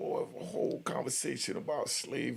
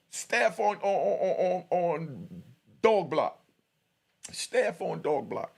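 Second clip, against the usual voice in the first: radio call; 6 semitones higher, 3 dB louder, slower than usual. Retold or imitated. Calling staff over the radio.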